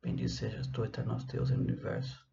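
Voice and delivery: soft, half-voiced Portuguese prayer; murmured blessing. Real, not acted. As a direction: recite the prayer quietly to yourself. Recites the blessing's translation in Portuguese.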